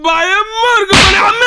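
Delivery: wailing through the beating; pained wail, half sobbing; crying out in pain. Acted. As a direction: sob it out while being hit. Crying out while being hit.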